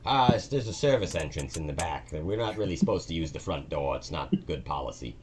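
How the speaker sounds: a nervous new employee eager to please; timid dungeon cleaner. Acted. Todd explaining his cleaning job to Maggie, high and meek. GM voices Todd giving directions.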